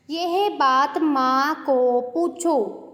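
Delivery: very slow, yeh baat spoken deliberately; teacher slowing to show the error; slow wrong example. Shown as a demonstration. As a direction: spell out the wrong sentence slowly. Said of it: "ऐसे नहीं होता।".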